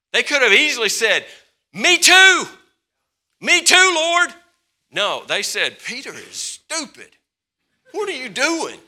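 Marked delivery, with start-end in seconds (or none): 1.7-4.3 high, loud eager shout; eager volunteer. Pretend. Imagined disciples eagerly volunteering, high and loud. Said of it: "I don't know what they said, but that's what I imagine". 5.8-8.8 mocking disciples. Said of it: "that's what I imagine".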